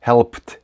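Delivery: "helped" as one syllable, "helpt"; "helped" with silent E, crisp T; voiceless ending on HELPED. Shown as a demonstration. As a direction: turn the final D of "helped" into T. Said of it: "то і D вимовляється глухо".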